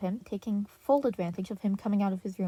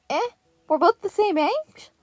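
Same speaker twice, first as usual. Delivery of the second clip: put-on high, loud kid's disbelief; a young boy crying out in surprise; exclaiming; 11 semitones higher, 9 dB louder than usual. A narrator's reading. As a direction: squeal it out in shock. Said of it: "Blue exclaimed".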